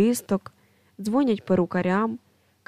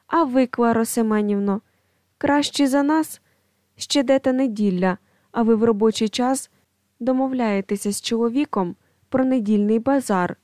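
sharp jab; 3 dB louder than usual. Acted. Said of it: "кидає Марія Іванівна".

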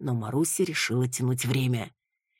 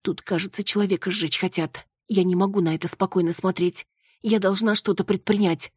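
higher, anxious woman's voice; a touch of panic, she must act; panicking; 5 semitones higher than usual. Acted. Маруся on the phone at the cemetery, lightly panicked. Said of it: "запаниковала Маруся".

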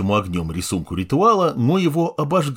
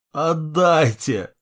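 moaning; 5 semitones higher, much slower than usual. Acted. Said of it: "простонал старик".

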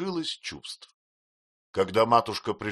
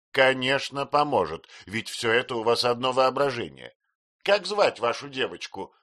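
louder, higher firm assurance; insistent aunt; 5 semitones higher, 5 dB louder than usual. A narrator's reading. Aunt dismisses the mother's worries, loud and firm. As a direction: brush her fear aside.

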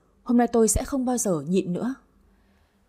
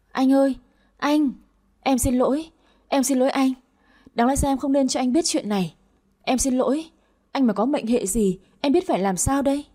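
high, urgent cry to her husband; panicked pleading; 4 semitones higher than usual. Acted. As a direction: beg him to stay with you, voice raised. Wife panics over collapsed husband.

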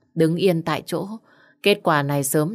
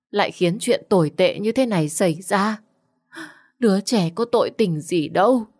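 tearful reproach; 3 semitones higher than usual. Acted. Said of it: "mà bật khóc".

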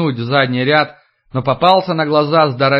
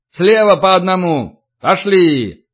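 shouting drill sergeant; 4 semitones higher, 3 dB louder, slower than usual. Acted. Sergeants command the line.

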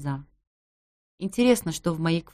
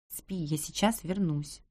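hushed and slow, barely voiced; soft hush; 6 dB quieter, slower than usual. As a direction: shush him gently so he sleeps on. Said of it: "тихо прошелестела я".

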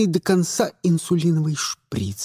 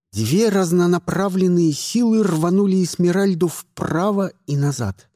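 usual speaking voice

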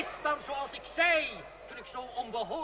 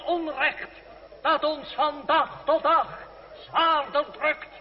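public oration; slower than usual. Acted. André addressing the citizens of Rennes, rousing public oration. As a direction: rouse the square from the pedestal.

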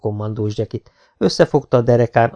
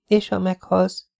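higher, slow anxious ask; worried question; 8 semitones higher, slower than usual. A narrator's reading. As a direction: fear for his life. Jessica fearful question. (aggódó kérdés)

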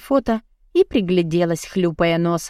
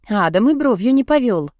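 plain reading voice

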